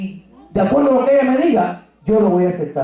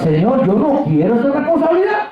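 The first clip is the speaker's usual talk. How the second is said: a touch higher, pleading with the Lord; pleading refusal; 5 semitones higher than usual. Retold or imitated. Preacher arguing with the Lord, pleading higher. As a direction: push back, begging off the job. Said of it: "me puse a contender con el Señor".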